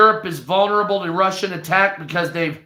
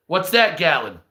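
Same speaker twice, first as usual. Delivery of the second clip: ordinary delivery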